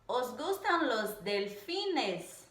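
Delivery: slow, careful question tune on "Os gustan los delfines?"; slow teaching demo of a Spanish question; question intonation. Shown as a demonstration. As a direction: read "delfines" as a clear question, slowly.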